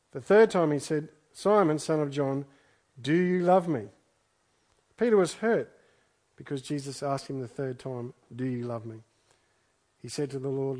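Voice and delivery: measured, solemn Bible reading aloud; scripture reading. Acted. Preacher reading the Gospel to the congregation, measured scripture reading.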